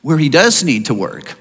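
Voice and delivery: lightly voiced smug bargaining; mock self-righteous. A believer voicing smug prayer bargaining with God. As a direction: act like God owes you. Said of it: "What we're saying is".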